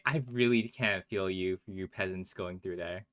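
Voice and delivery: slow, lofty mock sympathy; lightly put-on snobbish condescension; mock haughty. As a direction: drawl it like looking down on peasants. Mocks friend as lofty toward peasants.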